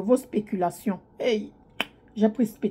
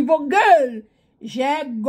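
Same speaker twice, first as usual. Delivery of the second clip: put-on Cameroonian accent. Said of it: "avec l'accent camerounais comme Ruby".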